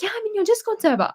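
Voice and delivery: high excited fan quote. Retold or imitated. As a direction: bubble it out like a starstruck fan. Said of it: "And he's like".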